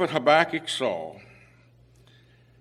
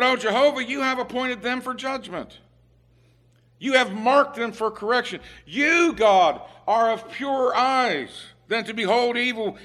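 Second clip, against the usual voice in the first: prophet's prayer; 7 semitones higher than usual. Retold or imitated. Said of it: "this is Habakkuk speaking to God".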